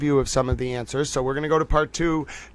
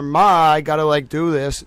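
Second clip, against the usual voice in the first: Boston accent. Shown as a demonstration. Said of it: "I have an accent, but I can say".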